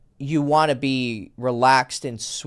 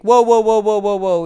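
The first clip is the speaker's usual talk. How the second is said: mock alarmed girl; 4 semitones higher, 6 dB louder than usual. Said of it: "she's like".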